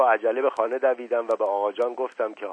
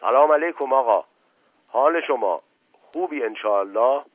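friendly greeting; 5 semitones higher, 8 dB louder than usual. Acted. Greeting the photographer warmly.

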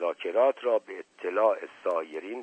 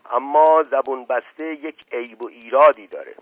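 loud, higher-pitched servant reporting; earnest Mashqasem; 4 semitones higher, 9 dB louder than usual. A narrator's reading. Mashqasem reports the talk to his master, loud and earnest. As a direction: launch loudly into an earnest, hedging report.

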